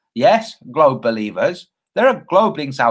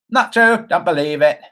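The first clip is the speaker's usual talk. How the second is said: mock Australian; 2 semitones higher, 3 dB louder than usual. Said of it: "He's Australian. That's kinda how he talks".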